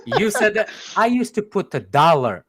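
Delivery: laughing through the words; real laughter, can barely get it out. Real, not acted. Telling his friend about the cop, laughing. Laughing while retelling story.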